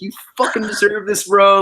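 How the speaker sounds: high, loud imitation of a British buddy; amped British accent. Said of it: "he was so amped".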